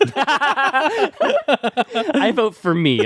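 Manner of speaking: high silly voice. Acted. Joking vote for self.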